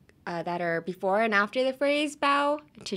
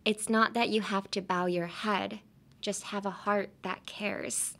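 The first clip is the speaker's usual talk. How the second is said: sincere read again. Shown as a demonstration. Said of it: "もう一度。".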